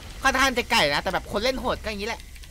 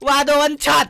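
louder, higher repeated เฮ้ย; excited yelling; 4 semitones higher, 5 dB louder than usual. Real, not acted. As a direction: yell in disbelief at the one-shot. One-shot kill, hyped reaction.

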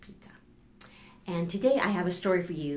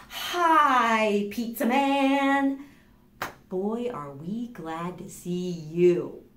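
glad greeting; 3 semitones higher, 4 dB louder, much slower than usual. Acted. Relieved greeting ends story.

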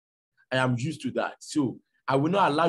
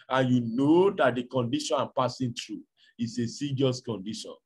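lightly voiced husband calming his wife; patient husband. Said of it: "he talked patiently".

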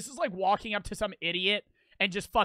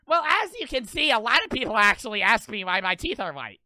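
mocking influencer. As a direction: mimic a self-important poster addressing followers. Mocking influencer answering planted question.

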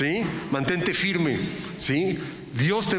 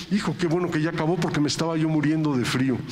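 relieved complaint; faster than usual. Pretend. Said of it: "que se te olvide".

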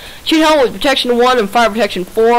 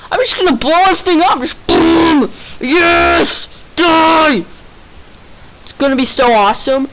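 gleeful villain; 6 semitones higher than usual. Pretend. Gleeful about blowing things up.

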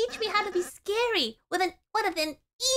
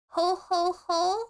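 evil laugh; slower than usual. Acted. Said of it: "It's my evil laugh!".

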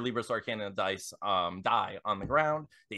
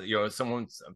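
whispering. Acted. Conspiratorial aside in a tale.

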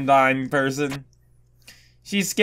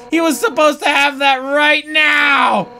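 high, loud commanding outburst; fired-up game warrior; fierce warrior shouting; 8 semitones higher, 5 dB louder than usual. Acted. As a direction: shout it as an urgent order. Character's sudden shouted demand.

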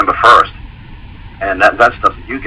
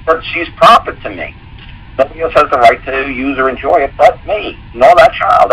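pitched well up, half laughing, pressing the point; defiant, gleeful retelling of his own words; excited insistence; 7 semitones higher than usual. Retold or imitated. Telling the family court social workers, raised and excited.

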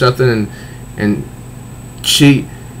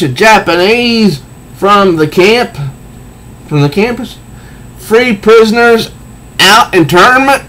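hammed-up comic-book villain, pitched up; villain Clayface; 4 semitones higher than usual. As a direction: sneer the betrayal at her like a jilted villain. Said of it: "Clayface right here is saying".

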